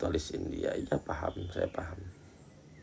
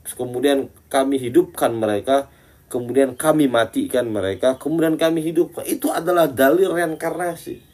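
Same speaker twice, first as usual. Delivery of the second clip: mock confident preacher; 6 semitones higher, 3 dB louder than usual. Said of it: "ada orang yang menafsirkan Quran dengan seenaknya".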